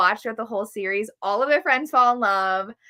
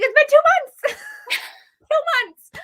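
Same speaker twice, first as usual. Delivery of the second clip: high, loud disbelieving yell, then laughing; incredulous outcry; 6 dB louder than usual. Retold or imitated. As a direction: shout it like you can't believe it. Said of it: "I was like".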